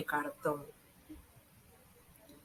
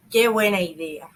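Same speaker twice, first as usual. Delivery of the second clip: exclamation; 6 dB louder than usual. Shown as a demonstration. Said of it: "pronombres exclamativos".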